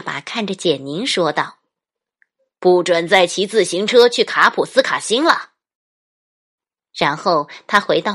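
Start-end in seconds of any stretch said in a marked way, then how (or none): 2.6-5.5 loud firm order; stern dad. Acted. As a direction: lay down the rule firmly. Dad forbids child.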